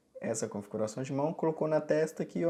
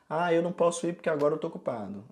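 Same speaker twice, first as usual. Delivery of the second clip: natural excuse; 5 semitones higher, 4 dB louder, faster than usual. Acted. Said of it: "você vai falar com a pessoa assim".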